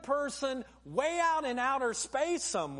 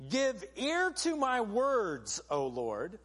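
reading scripture; slower than usual. Acted. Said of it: "He says these words".

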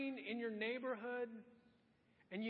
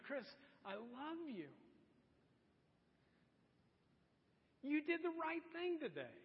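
God's loving voice; 4 semitones higher than usual. Retold or imitated. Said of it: "God's saying".

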